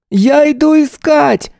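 put-on high, loud child's call. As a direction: shout it across the yard. Boy calling out in hide and seek.

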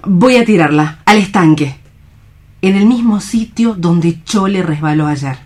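put-on gentle young woman, light and concerned; stage-play Alicia greeting a friend; nurse-like Alicia checking on Juan; Alicia, bright and caring. Alicia takes Juan's gun.

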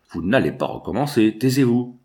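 a hint of a stern priest snapping shut the debate; brusque interruption. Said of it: "lui coupa brutalement la parole".

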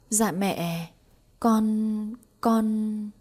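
a scared daughter-in-law, stumbling over words; trembling stammer to her mother-in-law; frightened stammer. Acted. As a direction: stammer "con, con" in fear. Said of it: "Hạnh lắp bắp".

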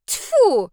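loud high spit of disgust; spitting in disgust. A narrator's reading. Sasha spitting mud off her face, loud disgusted tfu.

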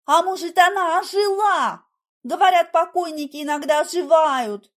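high, loud, excited theorizing; agitated guess. A narrator's reading. Heroine suggests the corpse revived, agitated. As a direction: blurt out a wild idea.

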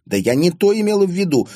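high, fast, amused denial; amused protest. A narrator's reading. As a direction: protest quickly, on the edge of laughter. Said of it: "засмеялась". (сквозь смех, оправдываясь)

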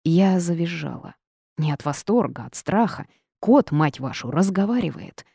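ordinary delivery, nothing marked

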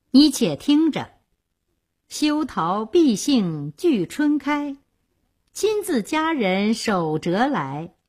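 slow, measured verse recital; smiling recitation. A narrator's reading. Bride quoting a poem to her groom, smiling. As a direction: recite the lines slowly, with a pleased air. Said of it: "玉珍笑道".

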